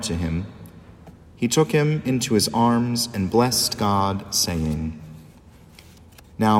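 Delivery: measured liturgical proclamation; Gospel reading. Acted. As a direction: read scripture solemnly from the ambo.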